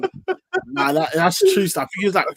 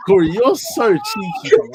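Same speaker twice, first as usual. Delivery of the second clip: laughing; 4 semitones higher, 4 dB louder than usual. Real, not acted. Teasing friend while laughing.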